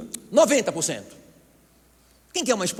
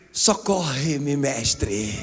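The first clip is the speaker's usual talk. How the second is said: drawn-out slow-motion cry for help; comic slow motion; 2 semitones lower, much slower than usual. Acted. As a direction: stretch every syllable as if sinking in slow motion. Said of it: "em câmara lenta, ele disse". (em câmara lenta, bem arrastado)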